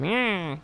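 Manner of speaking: drawn-out, falling mock "nyah"; soft jeering "nyaah" mimicking a TV host; mocking bleat. Mocking noise after naming Laura Ingram.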